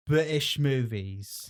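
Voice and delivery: "British" said slowly and oddly; odd pronunciation. Real, not acted. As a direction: draw out "British" strangely. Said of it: "Why did you say it like that?".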